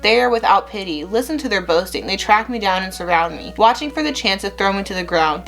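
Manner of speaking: steady, earnest reading of a psalm; scripture reading. Acted. Vlogger reading Psalm seventeen to viewers, earnest reverent reading.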